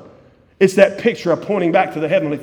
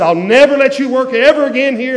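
retold angry boss; 7 semitones higher, 8 dB louder than usual. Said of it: "a man looking at me and said".

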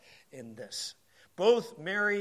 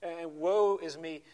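hammed-up woe, slowed; lightly mocking poor-me; mock self-pity; much slower than usual. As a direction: play the victim. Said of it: "I feel like a victim".

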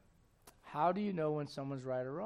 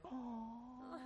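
mock swoon; 6 semitones higher, 15 dB quieter than usual. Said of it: "they say it real sweetly".

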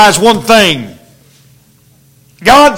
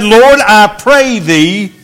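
slow, earnest prayer; praying; slower than usual. Retold or imitated. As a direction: plead gently with God, taking your time. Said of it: "And Elisha prayed".

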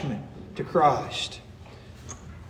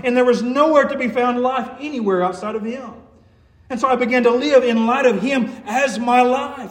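raised, pressing sermon delivery; impassioned preaching; 8 semitones higher than usual. Real, not acted. Preacher testifying to the congregation that Christ became his life, impassioned. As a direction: preach it with urgent conviction.

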